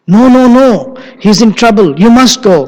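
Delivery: an anxious wife begging him to leave now; urgent pleading. Acted. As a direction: insist with rising urgency. Sita pleads with Lakshmana.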